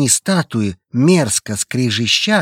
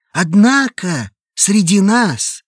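higher, louder solemn cult preacher; hoarse solemn voice; 9 semitones higher, 5 dB louder, slower than usual. Acted. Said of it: "— продолжил Лукин". (хриплый торжественный голос проповедника)

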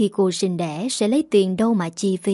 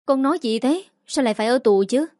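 startled mother, pitch jumping up then rushing; a mother's alarmed outburst, fast and rising; alarmed cry; 4 semitones higher, faster than usual. Acted. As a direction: cry out in shock at the news of prison. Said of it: "Bà Hồng kêu lên".

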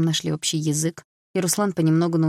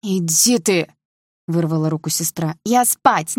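yelling back; 5 dB louder, slower than usual. Acted. Sister yanking her arm free, yelling at her brother. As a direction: shove the words at him.

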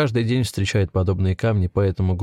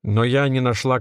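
rough male voice; 4 semitones higher than usual. A narrator's reading. Accused figure under the rag protests, rough-voiced. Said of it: "раздался мужской грубый голос".

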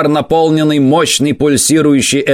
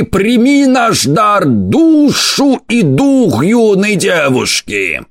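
priest invoking a demon; 4 semitones higher than usual. Acted. Priest summons the demon prince. (жрец, призывающий демона, протяжно и высоко)

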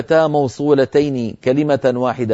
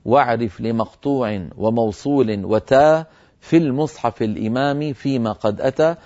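poem recitation. Shown as a demonstration. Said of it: "الذي أوله".

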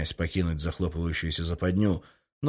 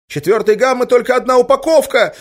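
high, loud, hysterical cry; hysterical shout; 10 dB louder than usual. Acted. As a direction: shriek it out in panic. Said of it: "истерично закричал кто-то".

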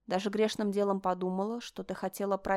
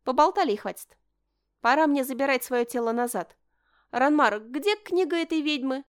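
commanding; 5 semitones higher, 5 dB louder than usual. Acted. Princess takes command loudly.

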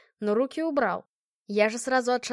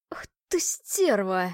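hissed insult; 3 semitones lower, much slower than usual. Acted. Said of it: "прошипел он".

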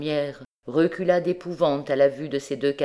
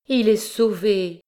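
high, slow burst of relief; joyful exclamation; 6 semitones higher, 5 dB louder than usual. Acted. Madeleine telling the dying mother her son is saved, joyful cry. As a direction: cry out the good news. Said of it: "s'écria-t-elle".

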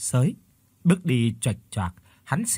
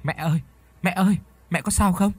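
put-on higher worried child's cry; alarmed calling; 6 semitones higher than usual. A narrator's reading. Boy running to his hurt mother, alarmed higher call. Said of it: "vội vàng chạy lại kêu".

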